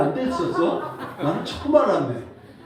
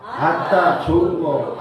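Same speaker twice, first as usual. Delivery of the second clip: Jeolla exclamation; 6 dB louder, much slower than usual. Pretend. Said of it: "전라도 버전".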